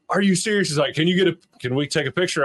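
high, fast mock excitement; hammed-up starstruck fan; excited fan. Fan asking for a photo, mock excited.

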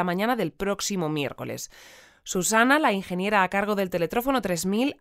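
crisp newsreader delivery; news read. Acted. Radio anchor reading the futuristic news headlines, newsreader style.

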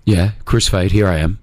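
very low Aussie movie-star voice; manly Australian heartthrob. Pretend. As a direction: drop low like an Australian leading man. Answering the Hemsworth bar with own voice.

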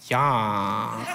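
low reluctant yeah with a laugh; flat-out grudging yes; unenthused yeah. Retold or imitated. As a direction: fake agreement, clearly not excited. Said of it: "And I was like".

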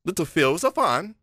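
light mock English accent; a famous singer. Co-host echoing the singer about another singer, mock English accent. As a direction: quote it with an English lilt. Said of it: "a heavy English accent".

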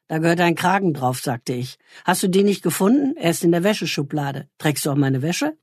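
calm, measured reading of her own short story; reading aloud. Acted. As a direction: read the story to listeners like a practised author. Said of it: "schöne Vorlesestimme".

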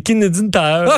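"Canadian Tire" run together as "kinedin taïeur"; quick mangled English. Real, not acted. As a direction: squash "Canadian" into "kinedin", French-Canadian style. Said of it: "je dis ça vite".

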